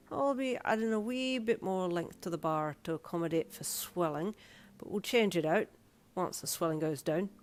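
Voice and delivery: explaining in an Irish brogue; friendly Irish piercer. Acted. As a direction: reassure the client as an Irish piercer.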